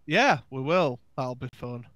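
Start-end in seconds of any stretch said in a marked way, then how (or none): 1.2-1.9 forced out through clenched teeth; grudging, teeth clenched tight; through gritted teeth. Real, not acted. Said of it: "He says through gritted teeth".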